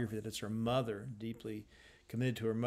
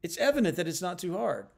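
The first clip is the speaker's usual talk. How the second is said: evident pushed out high and loud; straining to stress evident; insistent stress; 6 semitones higher, 6 dB louder, faster than usual. Shown as a demonstration. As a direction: insist it's evident, a little too hard. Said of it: "she's straining to say".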